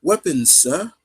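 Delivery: lightly imitated Cockney; a hint of Cockney, asking; Cockney game character. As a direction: toss it off in mock Cockney. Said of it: "one of the characters says".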